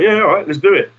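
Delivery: eager yes. Retold or imitated. Band agreeing to play the German festival, eager. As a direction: jump at the offer, mock eager. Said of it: "So we was like".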